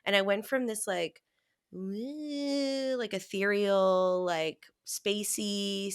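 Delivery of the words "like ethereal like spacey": dreamy, drawn-out space cadet voice; spacey. Retold or imitated. Telling a friend how spaced out she felt, dreamy drawn-out voice. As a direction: float the words like a space cadet. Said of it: "space cadet kinda thing".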